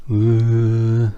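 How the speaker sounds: long, level mock-spooky "ooh"; drawn-out ooh of pretend dread; mock-scared ooh. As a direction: feign being spooked with a held ooh. Mock fear at enemy's flanking move.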